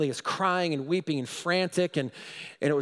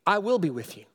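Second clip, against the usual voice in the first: rising, higher declaration; proclaiming promises; 8 semitones higher than usual. Acted. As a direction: declare God's words with power.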